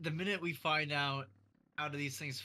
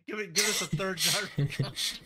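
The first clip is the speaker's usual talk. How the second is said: excited; 3 semitones higher, 8 dB louder than usual. Real, not acted. Excited call to friend.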